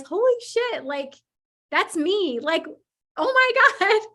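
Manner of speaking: a client seeing herself, shrieking with joy; delighted amazement. Retold or imitated. Host voicing a client's joyful realization, laughing high.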